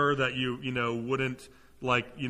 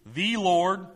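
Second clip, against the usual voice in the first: "The" drawn out as a distinct word; stress on THE; 3 semitones higher than usual. Shown as a demonstration. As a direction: lean on "The" before "Lord". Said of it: "definite article, "the".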